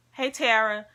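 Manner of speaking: soft, tight voice about to cry; squeaky crying voice. Real, not acted. Vlogger to viewers, real tears making her voice squeaky. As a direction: squeeze the words out through tears. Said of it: "Now my voice getting squeaky".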